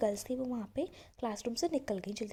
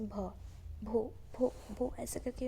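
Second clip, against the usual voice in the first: halting stammer, stuck on the first sound; imitating a stammer; slower than usual. Bholi trying to say her name in class, stammering. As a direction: break off and restart the name like a shy stammerer. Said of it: "stammer करते हुए".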